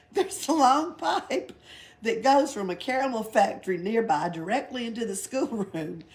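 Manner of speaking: high, loud, giggling Pippi voice; giggling storyteller; laughing through it. Acted. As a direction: spin the tall tale through laughter. Pippi's tall tale, laughing.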